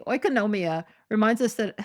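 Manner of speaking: a laugh bursting in at the end; breaking into laughter. Real, not acted. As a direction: start reading earnestly, then crack up. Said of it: "I'm gonna laugh every time I say that word".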